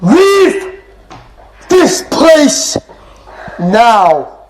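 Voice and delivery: dramatic command. Acted.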